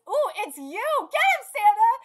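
loud, high rooting for the hero; rowdy fan cheer; excited cheering. Real, not acted. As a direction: yell encouragement at the fighter.

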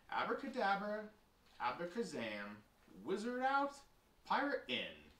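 incantation in short bursts, leaping high; spell casting. Acted. Brother switches from wizard to pirate, incanting. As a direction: cast a play spell word by word.

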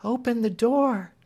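put-on a timid girl set on her purpose; resolute Marian. A narrator's reading. Marian asking Clemency to open the door, high and resolute. Marian gives quiet order.

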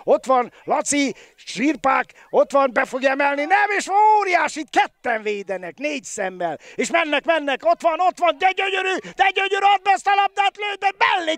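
fast, high, building commentator call; excited hungarian sports commentary. Real, not acted. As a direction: race along with the attack. Attack building to a shot.

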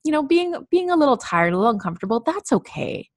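put-on gentle little kid voice. Shown as a demonstration. Tired adult soothing herself like a small child, gentle and reassuring. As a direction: comfort yourself like you would a little kid. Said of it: "like, little kid voice".

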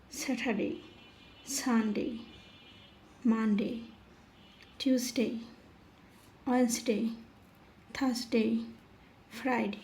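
day names said singly, falling, with pauses between; measured, word-by-word pronunciation drill; careful model pronunciation. Shown as a demonstration. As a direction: model each English day name for learners. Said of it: "নামের সঠিক উচ্চারণ আজকে".

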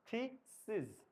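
থিসিস slowly, ending in a buzzed z; slow thee-seez for থিসিস; final j sound. Shown as a demonstration. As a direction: stretch থিসিস and voice the last consonant like জ. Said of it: "জ লাস্টে".

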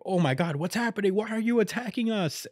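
rising high alarmed cries; mock panic. Crew attacked by the seraphim, mock panicked rising cries. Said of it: "And they're like".

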